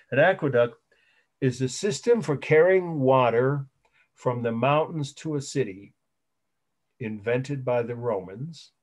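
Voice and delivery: measured dictation, phrase by phrase; deliberate classroom dictation with clear breaks. Real, not acted. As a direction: dictate it for note-takers, pausing between phrases. Dictating a definition to students.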